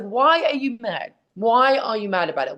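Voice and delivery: acted incredulous questioning of critics; mock bewilderment. Answering people mad about the tapes, mock bewildered.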